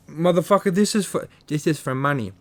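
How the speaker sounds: Tyson. Acted. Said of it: "a shitty Tyson impression".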